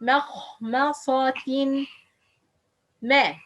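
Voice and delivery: "مخمصة" with a thin, light m vowel; light meem. Shown as a demonstration. Teacher models the word, light meem. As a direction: keep the meem in "مخمصة" light beside heavy letters. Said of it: "Ma, not ma".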